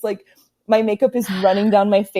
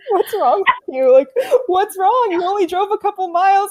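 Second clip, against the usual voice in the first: imitating dad; 9 semitones higher than usual. Dad questioning crying daughter.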